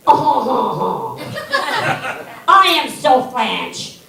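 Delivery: lightly mock a smug Frenchman; mock French accent. Teasing a French soldier with a mock French accent. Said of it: "what the Americans think of the French".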